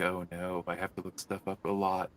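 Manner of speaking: low, quiet mock dismay; dismayed muttering. Translator facing a page of complex stuff, dismayed muttering. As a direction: grumble it softly, a little weary.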